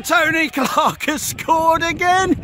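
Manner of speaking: slow, drawn-out excited call; slow goal call. Real, not acted. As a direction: savour the goal call slowly.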